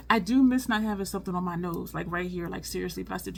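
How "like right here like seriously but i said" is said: normal talking voice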